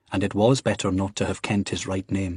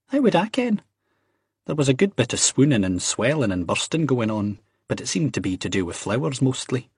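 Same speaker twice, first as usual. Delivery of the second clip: slightly raised Scottish character voice; Ian's bantering voice; 3 semitones higher than usual. Acted. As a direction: toss it off, then recount it. Acts Ian in story.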